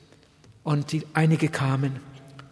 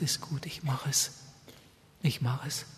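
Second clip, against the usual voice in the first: soft giving in; 9 dB quieter than usual. Retold or imitated. Husband gives in quietly.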